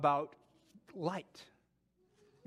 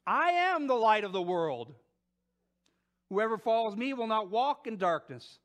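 proclaiming; 4 dB louder than usual. Acted. Jesus proclaims at the festival.

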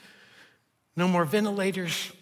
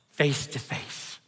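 slow, soft breathy whisper; whispered echo; 4 semitones lower, 6 dB quieter, slower than usual. Real, not acted. Preacher to congregation on seeing God, hushed whisper. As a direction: breathe it as an intimate secret. Echoes previous phrase, hushed.

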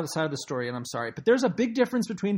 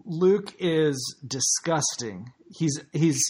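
mock disgust; 5 semitones lower, much slower than usual.

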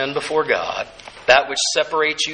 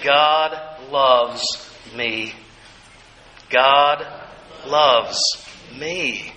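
warm; much slower than usual. Shown as a demonstration. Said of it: "and say".

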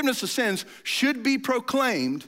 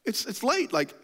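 higher mock call that softens to coaxing; half-hearted hey-bro urging him to stay; disciples calling out; 5 semitones higher than usual. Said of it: "And they're like".

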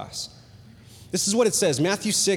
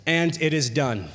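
mimicking Jesus; 5 semitones lower than usual. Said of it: "mimicked from Jesus".

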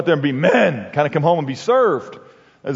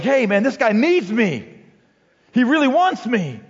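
smitten wife; 7 semitones higher than usual. Retold or imitated. Wives' early view of husband.

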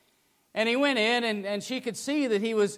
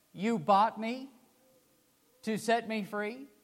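weeping disbelief; 2 semitones higher, 4 dB quieter than usual. Retold or imitated. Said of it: "through weeping tears".

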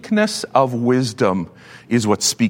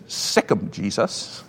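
parrot voice; 5 semitones lower, 8 dB quieter, slower than usual. Acted. Parrot sets dog on thief.

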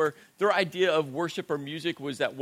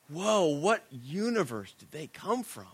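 bewildered. Retold or imitated. Stunned churchgoer walking in.

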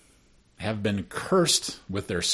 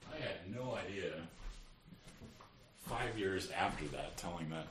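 blowing nose; 14 dB quieter than usual. Real, not acted. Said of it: "Jay is blowing his nose".

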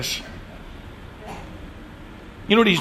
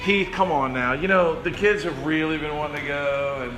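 softer, lower coaxing; soft pleading wife; 5 semitones lower, 7 dB quieter than usual. Retold or imitated. Wife softly pleads with husband for the kids' trip, coaxing. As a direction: gently talk her husband round. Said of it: "And she'd go".

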